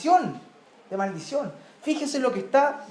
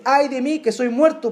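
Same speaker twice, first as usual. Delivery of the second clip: prophet's lament; 3 semitones higher, 4 dB louder than usual. Acted.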